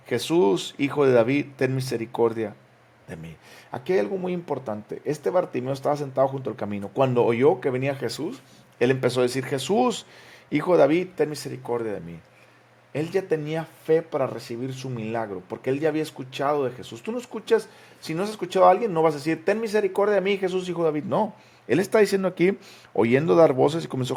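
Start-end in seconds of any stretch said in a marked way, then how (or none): 0.1-3.4 crying out for mercy. Acted. Blind beggar crying out. 9.4-12.2 calling out for mercy. Acted. Blind beggar calling out again. 19.4-21.0 calling out for mercy. Acted. Beggar's cry repeated.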